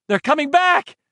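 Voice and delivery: high ringing yell. A narrator's reading. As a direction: shout it out at last. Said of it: "he wanted to shout".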